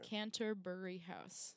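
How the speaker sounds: CANTERBURY HOUSE said slowly, syllable by syllable; careful enunciation. Shown as a demonstration. Guest repeats the venue for listeners, CANTERBURY slow and careful. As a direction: spell out CANTERBURY by sound, unhurried.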